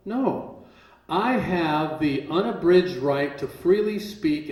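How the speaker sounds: slow, measured assertion of a right; formal declaration. Shown as a demonstration. Defendant asserting free speech to the court, slow formal declaration. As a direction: state it deliberately, word by word.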